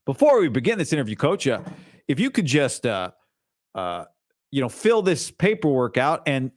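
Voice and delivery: Southern John Lynch. Retold or imitated. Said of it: "John Lynch is Southern in this scenario".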